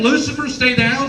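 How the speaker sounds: baffled question, rising at the end; puzzled caller quoting. Retold or imitated. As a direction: repeat what you overheard in disbelief. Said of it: "Someone's on the other phone going".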